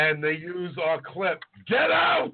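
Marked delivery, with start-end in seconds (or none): 1.7-2.3 high-pitched imitated yell; mock shout. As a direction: belt it out high, like a radio soundbite. Imitates the show's shouted clip.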